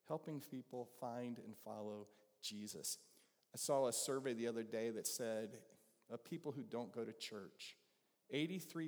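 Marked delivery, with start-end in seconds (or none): 0.1-3.0 softer and slower, letting it sink in; soft, slow, heartfelt. Shown as a demonstration. Preacher repeating the mission statement to the congregation, soft and slow. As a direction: lay the motto down gently like a closing prayer. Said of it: "personal mission statement would have been".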